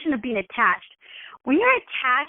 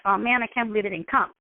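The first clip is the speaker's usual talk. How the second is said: slightly deflated, lower-pitched letdown; mild disappointment; 5 semitones lower, faster than usual. Pretend. Host reacts to a guest not coming, mildly disappointed. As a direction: let it sag a little, briefly disappointed. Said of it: "a little disappointed".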